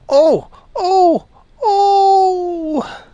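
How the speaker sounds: high, pained moaning fox cub. A narrator's reading. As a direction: moan it out like a hurt little fox. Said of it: "moaned Reddy Fox".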